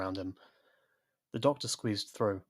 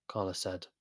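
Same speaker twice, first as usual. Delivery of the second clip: ordinary delivery, nothing marked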